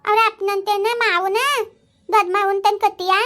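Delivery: a daughter near tears, pleading loudly; tearful protest. Acted. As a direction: daughter loudly protesting the match, half crying. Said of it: "ಸುಮ್ನೆ ಪೂಜಾ, ಅಳ್ಬೇಡ".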